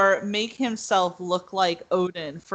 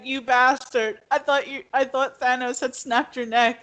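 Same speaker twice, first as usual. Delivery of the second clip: higher, mock-outraged Thor; shocked Thor; 5 semitones higher than usual. Thor seeing Loki alive, mock shocked outburst. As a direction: blurt it out in disbelief. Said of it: "Thor would have been like".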